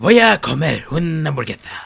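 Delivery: loud, belted Castilian Spanish accent. Showing the difference in how Spaniards speak: Spaniard accent. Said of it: "I was talking like a Spaniard".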